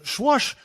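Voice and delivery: high, drawn-out swoosh; imitated flush swoosh. Shown as a demonstration. Host describing water coming down the bowl, imitated swoosh. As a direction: make the whoosh of rushing water.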